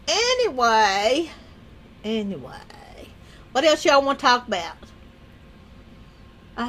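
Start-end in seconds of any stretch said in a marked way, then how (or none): 0.1-1.3 slow, stretched "anyway"; drawn-out segue. Real, not acted. Changing the subject, says it twice. 2.0-2.6 soft, low, whispered "anyway"; whispered echo. Real, not acted. Streamer moving on from cookie talk, whispered echo. Repeats it to self, trailing away.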